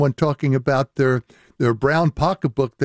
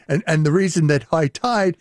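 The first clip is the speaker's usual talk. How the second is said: normal talking voice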